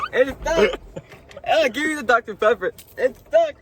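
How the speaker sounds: high, panicked, cinnamon-choked voice; mouth full of cinnamon. Real, not acted. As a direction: beg through a dry mouthful.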